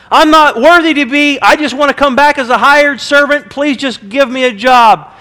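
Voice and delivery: high, loud, desperate pleading; pleading son. Retold or imitated. Son pleading with his father, desperate and loud. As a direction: beg him for just a job. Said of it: "the son does say".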